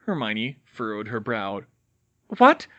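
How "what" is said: high whispered question; confused whisper. Acted. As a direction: breathe it out confused. Hermione confused, pinned down.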